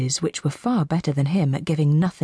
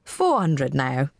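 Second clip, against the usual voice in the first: auctioneer; 2 semitones lower, slower than usual. A narrator's reading. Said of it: "the auctioneer repeated".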